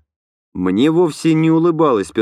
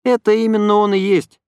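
higher female voice, a touch unhappy; unhappy young woman; 10 semitones higher than usual. A narrator's reading. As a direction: answer glumly as Lena. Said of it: "сказала Лена с несчастным видом".

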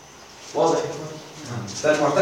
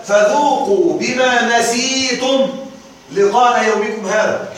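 light chanted verse quote; Quran recitation; 2 semitones higher, slower than usual. Shown as a demonstration. المعلم يتلو الآية بتجويد خفيف. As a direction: recite slowly in a mild tajweed style. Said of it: "قال تعالى".

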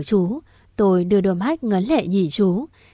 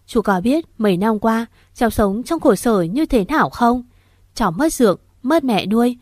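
anguished sobbing plea. Acted. Choked-up plea to uncle.

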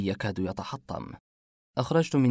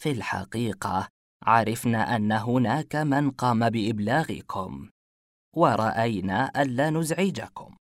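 slow, hesitant explaining; flustered. Acted. Saleh explains himself to the detective, flustered. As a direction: pick the words with care. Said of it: "حديثه المرتبك".

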